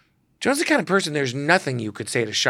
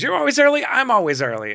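put-on much higher, brassy old diva; Joan Rivers; 11 semitones higher, 4 dB louder than usual. Joan quizzing the early photographer, brassy squawk. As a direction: squawk it like a comedy legend. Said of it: "She goes".

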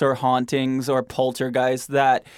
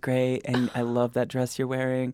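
timid polite ghost; 7 dB quieter than usual. Pretend. Imagined polite ghost speaking.

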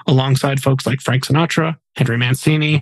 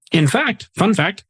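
higher and higher singsong; rising singsong; 8 semitones higher than usual. Acted. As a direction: build the pitch up playfully. Building up a fun fact.

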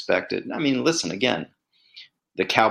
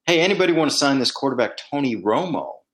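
quick, raised call to the room; mock yell across the room; 4 semitones higher, faster than usual. Scout calling out to the busy draft room, mild yell. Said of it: "yells out to the room".

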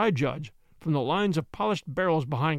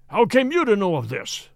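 loud shaken outburst; startled cry; 3 semitones higher, 6 dB louder than usual. A narrator's reading. Baronet caught out over the coffin, crying out. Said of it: "he cried".

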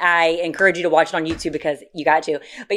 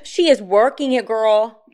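excited gasp; 4 semitones higher, slower than usual. Real, not acted. Gasps at friend's mugshot.

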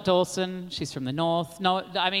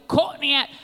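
"Courtney Act" higher, in a mock Australian accent; 8 semitones higher, 3 dB louder than usual. RuPaul saying her name in an Australian accent. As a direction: say the name as RuPaul does, puzzled. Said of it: "RuPaul would always say my name with an Australian accent".

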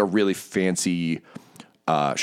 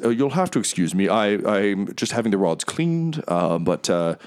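smooth, grand, apologetic host; oil every word with charm; lightly voiced theatrical merchant; Mahadi, gregarious tiger. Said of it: "he says".

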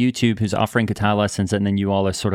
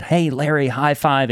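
lightly raised, eager call to a celebrity; retold greeting; 5 semitones higher, slower than usual. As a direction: offer a friendly high five. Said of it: "I said".

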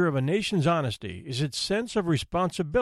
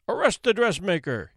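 commanding order; 3 semitones higher than usual. Acted. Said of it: "the judge ordered".

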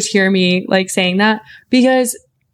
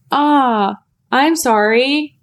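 higher, slow sympathetic apology; retold apology; 4 semitones higher, much slower than usual. Friend replying to news of a sliced finger, apologetic. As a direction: draw out a mock-sympathetic sorry.

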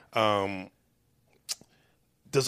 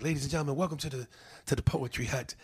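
poetry host announcer; 7 dB quieter than usual. Retold or imitated. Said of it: "And I was like".

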